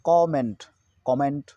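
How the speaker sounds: कमेंट as kaw-ment; correct comment pronunciation. Shown as a demonstration. Teacher repeating the correct reading, कमेंट as kaw-ment. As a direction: open o opening कमेंट. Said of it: "क्या होना चाहिए?".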